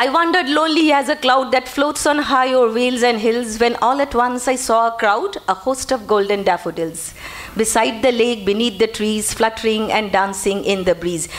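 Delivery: slow, metrical verse reading; poem recitation. Shown as a demonstration. Teacher reciting Daffodils to show meter, slow rhythmic reading. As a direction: recite slowly, letting the meter swing.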